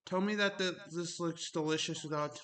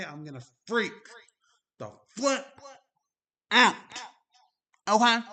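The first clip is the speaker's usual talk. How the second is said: echoey; 6 semitones higher, 12 dB louder than usual. Real, not acted. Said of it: "Why do I sound echoey?".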